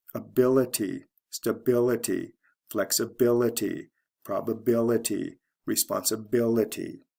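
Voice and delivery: each word falls away after its stressed BIL; stress before -ity. Shown as a demonstration. Teacher listing examples of the pattern, stressing BIL in each. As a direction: hit BIL in Ability, stability, flexibility, probability, responsibility. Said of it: "The syllable right before the I T Y".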